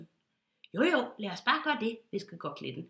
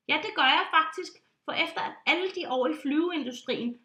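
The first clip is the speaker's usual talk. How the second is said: louder, higher, huffy; indignant insistence; 4 semitones higher, 5 dB louder than usual. Acted. Pilot insisting on closing his eyes, louder. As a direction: defend yourself grandly.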